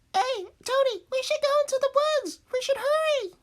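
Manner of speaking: high, loud, anxious squeal; mock little-boy panic, pushing a friend along; urgent kid. Boy urging Tony into the woods, urgent high cry.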